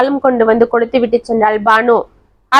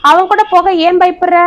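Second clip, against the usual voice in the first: doubtful, pitched much higher; suspicious question; 7 semitones higher than usual. Acted. Grandmother questioning the girl, suspicious and raised. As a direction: ask it with a suspicious edge. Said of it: "சந்தேகமாக கேட்டாள்".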